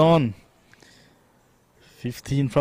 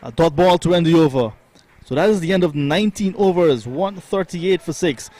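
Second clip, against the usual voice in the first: higher, louder wrap-up of a tense over; excited commentary; 4 semitones higher, 4 dB louder than usual. Real, not acted. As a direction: raise the energy for the big moment.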